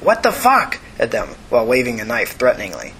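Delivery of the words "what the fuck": high-pitched acted shout. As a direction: shout it in protest, voice jumping up. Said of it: "she shouted".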